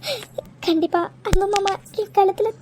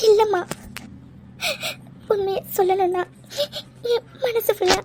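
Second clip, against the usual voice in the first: crying confession. Acted. Daughter confessing love, crying.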